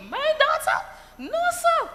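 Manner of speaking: high, indignant parent denying it all; disbelieving parent. Retold or imitated. Parent refusing the teacher's report, high indignant denial. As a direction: scoff as if your child could never.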